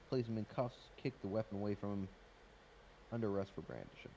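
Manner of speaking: talking while chewing a pretzel. Real, not acted. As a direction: speak around a mouthful. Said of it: "Sorry, I'm chewing on a pretzel right now".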